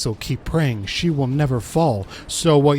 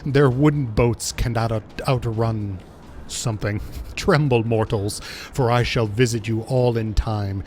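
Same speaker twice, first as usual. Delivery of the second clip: understated villain monologue, imperious; lightly voiced tyrant god; 4 semitones lower than usual. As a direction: declare it like a cruel god-queen, a touch lower. Voices the boss's dialogue.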